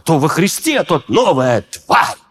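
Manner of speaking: slow, scornful reading of «тварь» like a grandfather scolding; grandfather's intonation. Retold or imitated. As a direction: read «тварь» with a mild grandfather's contempt. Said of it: "я слышал интонацию дедушки".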